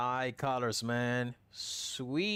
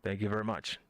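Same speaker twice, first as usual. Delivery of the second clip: airline captain announcement; faster than usual. Pretend. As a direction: address the cabin like a captain on the intercom. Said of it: "it's your captain speaking".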